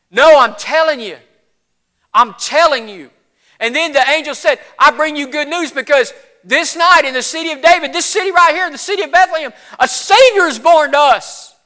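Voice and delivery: emphatic, excited retelling; urgent shepherd pleading to be believed; insistent shepherd. Acted. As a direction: press the astonishing news on a doubter. Shepherd insists and quotes the angel.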